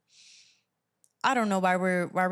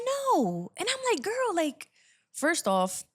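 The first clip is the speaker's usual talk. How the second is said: pitched way up in disbelief; high incredulous voice; 11 semitones higher, slower than usual. Retold or imitated. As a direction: squeal it in shocked disbelief. Outraged retelling of her no.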